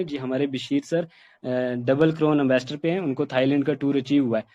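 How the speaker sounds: sluggish, uninterested plan pitch; listless same-tone delivery. Shown as a demonstration. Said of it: "ऐसे कहेंगे same wording में".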